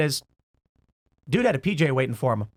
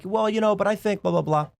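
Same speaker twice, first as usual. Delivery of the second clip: calm off-camera voice; 5 semitones higher than usual. Retold or imitated. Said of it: "he makes his comments very calmly".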